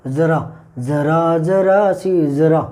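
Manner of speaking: जरा drawn out slowly from the throat, low; teacher demonstrating the Urdu जरा from the throat; throaty Urdu jara. Shown as a demonstration. Teacher to students, slow throaty जरा demo. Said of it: "मतलब इस तरह से आवाज़ है".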